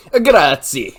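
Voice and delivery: loud, high, hammed-up Italian grazie. Friend mocks Italian accents with a booming hammed-up accent. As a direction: throw out Grazie like a cartoon Italian. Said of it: "Or if I might say".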